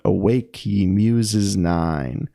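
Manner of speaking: slow, sing-song verse reading; drawn-out, lilting poem recital; lilting iambic recitation. Shown as a demonstration. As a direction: chant the meter, stretching each stressed beat. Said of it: "how it gives it that sound".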